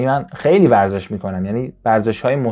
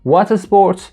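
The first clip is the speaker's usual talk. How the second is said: very slow, louder, higher question; slow loud demo; 8 semitones higher, 5 dB louder, much slower than usual. Shown as a demonstration. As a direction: model the question for the class. (آهسته و بلند برای آموزش)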